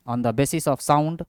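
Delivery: very slow, spaced dictation of a heading. Shown as a demonstration. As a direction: spell it out slowly as students copy. Teacher dictating heading slowly. (धीमे-धीमे लिखवाते हुए)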